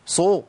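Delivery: صو with a thickened, emphatic ṣ; mock the mistake, a dark heavy صو; wrongly heavy s. Shown as a demonstration. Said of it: "ما نجيش إحنا بقى في القرآن ونقول".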